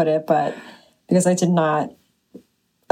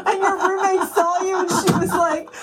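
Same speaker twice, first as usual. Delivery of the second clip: laughing; 10 semitones higher than usual. Real, not acted. Still laughing while retelling.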